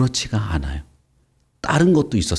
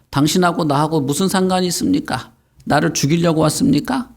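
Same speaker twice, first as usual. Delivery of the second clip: mild retold yell; crying-out demon; 5 semitones higher than usual. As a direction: imitate a demon's protest in a raised pitch. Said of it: "막 소리를 질렀잖아".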